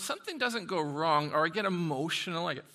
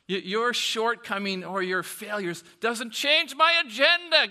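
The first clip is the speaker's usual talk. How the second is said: louder and higher, climbing to a peak; forceful declaration; 6 semitones higher, 9 dB louder than usual. Acted. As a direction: proclaim it with growing force. God declaring, preached.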